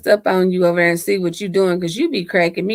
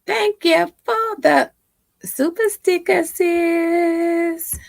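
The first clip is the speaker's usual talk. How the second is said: high, slow, glitchy like a robot filter; warbling robot-filter voice; robotic glitchy voice; 9 semitones higher, much slower than usual. Real, not acted. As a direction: sounds like a robot over a bad stream. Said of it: "You sound like a robot".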